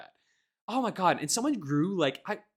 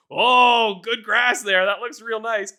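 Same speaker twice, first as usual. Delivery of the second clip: sarcastic praise; 6 semitones higher, 8 dB louder, slower than usual. Retold or imitated.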